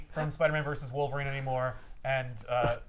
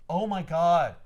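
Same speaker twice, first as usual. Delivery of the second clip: exasperated groan; 2 semitones higher, 5 dB louder, slower than usual. Retold or imitated. Villain exasperated at parents' question.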